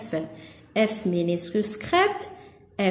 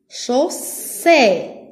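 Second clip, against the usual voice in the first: "Chaussette" broken off after a long, strong "sse"; second syllable emphasised; 2 semitones higher, 3 dB louder than usual. Shown as a demonstration. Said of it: "la deuxième syllabe". (« Chaussette » en appuyant sur la deuxième syllabe)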